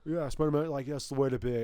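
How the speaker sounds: lightly voiced edgy teen; Californian teenager voice. Host echoing the edgy fourteen-year-olds, Californian teenager voice. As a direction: play along as a California kid. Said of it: "my teenager voice is just a kid from California".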